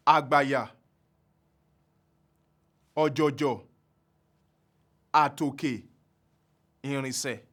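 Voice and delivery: Àgbàyà, ọ̀jọ̀jọ̀, àtòkè, ìrìnsẹ̀ each on all low tones, slow; slow low tone words. Shown as a demonstration. Teacher modelling trisyllabic low tone words slowly. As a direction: sound every syllable low. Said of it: "very slowly for you to understand".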